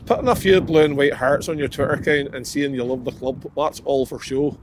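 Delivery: put-on a light, understated Irish accent reading out a quote; Tommy Wright Irish accent. Friends ask him to read it like Tommy Wright, faint Irish accent. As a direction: ease into a faint Northern Irish lilt, barely put on. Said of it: "In an Irish voice".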